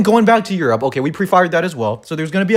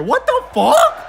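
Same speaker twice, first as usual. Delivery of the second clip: high squeal with a laugh; real giddy yelp; laughing disbelief; slower than usual. Real, not acted. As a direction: laugh it out in shock. Reacting to more announcements.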